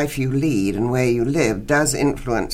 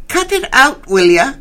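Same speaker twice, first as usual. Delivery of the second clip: much higher, louder sharp yell; 12 semitones higher, 8 dB louder than usual. Acted. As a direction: shout it down the corridor to stop the racket. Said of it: "I yelled".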